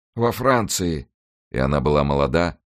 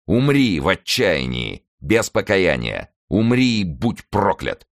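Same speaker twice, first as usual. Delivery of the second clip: slow, forceful condemnation; vengeful curse; 4 semitones higher than usual. Acted. Monk curses his mother's executioner, slow and merciless. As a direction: pronounce each word as a sentence of death. Avenger curses the dying man.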